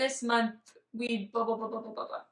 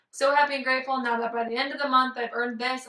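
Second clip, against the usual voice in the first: rote affirmation; faster than usual. Retold or imitated. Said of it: "When I say".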